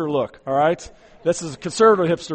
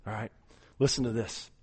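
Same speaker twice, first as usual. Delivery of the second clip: ordinary delivery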